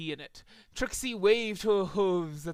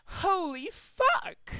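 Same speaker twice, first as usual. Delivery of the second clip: startled yell; 13 semitones higher, much slower than usual. Acted. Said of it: "as she yelled".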